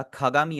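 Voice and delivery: खागामी with an aspirated kh at the start; breathy kh to open खागामी; खागामी, word-first kh aspirated; initial kh. Shown as a demonstration. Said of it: "हम खा की आवाज निकाल लेते हैं".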